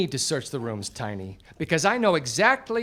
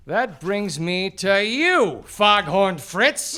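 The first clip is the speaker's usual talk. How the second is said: dramatic call-out; 2 semitones higher, 4 dB louder, slower than usual. Acted. Detective names next suspect.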